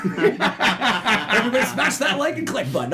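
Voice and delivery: high, laughing YouTuber plug. Pretend. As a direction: hype it like a streamer. Mock YouTuber call to action.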